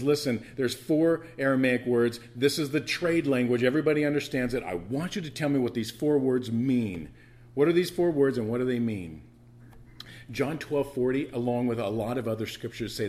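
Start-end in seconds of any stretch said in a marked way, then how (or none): 0.0-9.2 king's proclamation, raised and louder; crying out. Retold or imitated. Preacher voices the king calling to his wise men, raised and urgent. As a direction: herald it like a king demanding answers. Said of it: "He cries out and he says".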